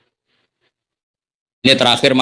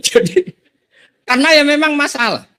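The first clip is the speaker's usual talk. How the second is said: talking through a high laugh, much higher; 14 semitones higher than usual. Real, not acted. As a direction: still laughing at his own punchline. Laughing after his own joke.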